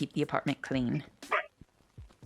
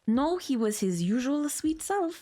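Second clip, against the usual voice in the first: lightly put-on foreign accent for the wife; a hint of a German accent; wife's accent; 3 semitones higher than usual. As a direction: play the wife in a playful German-ish accent. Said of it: "Sorry for my terrible accent skills".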